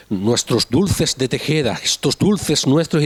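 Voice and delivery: mocking a Canarian forcing a Castilian accent, slow; mock Castilian ad voice, slow and stiff; fake Castilian accent. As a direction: parody the ad read, slowly overpronouncing a Castilian accent. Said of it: "el anuncio del".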